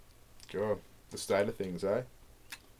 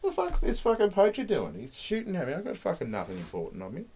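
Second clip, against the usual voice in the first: voiced rhino; 10 semitones higher than usual. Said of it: "they're like".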